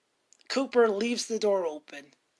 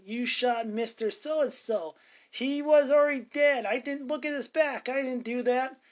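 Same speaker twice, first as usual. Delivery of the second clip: upset Judith; 4 semitones higher than usual. Retold or imitated.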